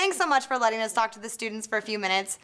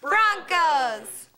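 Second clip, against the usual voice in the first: shouted team name; cheer reply; 2 semitones higher than usual. Acted. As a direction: answer the cheer, drawing out Broncos. Answering the call-and-response cheer.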